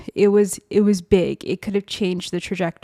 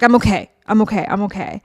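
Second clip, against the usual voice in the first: choked-up reassurance; 3 dB louder, faster than usual. Retold or imitated. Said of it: "couldn't even choke out the words".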